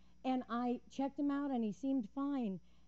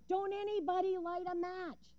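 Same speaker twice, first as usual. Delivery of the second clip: mild mock yell; 9 semitones higher than usual. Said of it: "yelling out".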